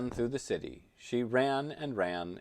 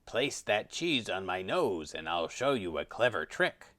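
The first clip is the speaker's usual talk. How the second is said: lightly voiced wheedling tiger; sweetly coaxing tiger; 3 semitones lower than usual. A narrator's reading. Tiger promising the crow a trick, lightly coaxing. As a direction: coax with a sly promise. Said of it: "coaxed the tiger sweetly".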